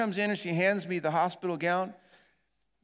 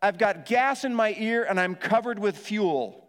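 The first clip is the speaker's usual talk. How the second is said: loud, slow yelled announcement; 4 semitones higher, 5 dB louder, slower than usual. Retold or imitated. Pastor yelling to the ER staff, loud and slow. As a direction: yell out to the ER lobby. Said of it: "I just yell out".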